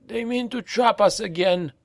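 a broken slave suspecting a trap; frightened slave. A narrator's reading. Slave warning the others, high and fearful. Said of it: "said another".

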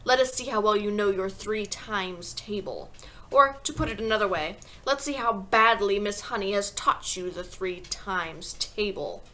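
slow, deliberate challenge; measured, scornful tyrant; menacing headmistress. Acted. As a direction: stretch it out with disdain.

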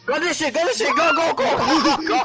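high laughing go go go; hyped up cheering; excited yelling. Real, not acted. Hype while escaping in game.

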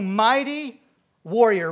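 loud, drawn-out calling; God naming Gideon; loud proclamation. Acted. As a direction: call out the title with weight.

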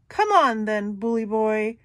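loud defiant roar; big goat roars back. Acted. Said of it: "Big Billy roars back".

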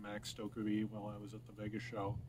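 talking around pipe stem; pipe in mouth. Real, not acted. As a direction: lips clenched on pipe. Seen 0: Pipe stem held between lips while talking, removed around 3.8 s.

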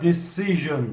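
"Decision" with the weight on "-ci-"; de-CI-sion, lean on the middle; stress on the middle syllable. Shown as a demonstration. Teacher showing the class, stress on CI. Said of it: "Decision'da vurgu".

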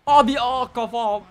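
hammed-up hurt wrestler begging; mock pained cry. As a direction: whine as the beaten wrestler. Voicing hurt opponent.

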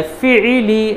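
syllables run together quickly; quick and joined. Shown as a demonstration. Teacher showing students the right way, read quickly. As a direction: blend the three into one quick word. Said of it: "जल्दी पढ़ना है".

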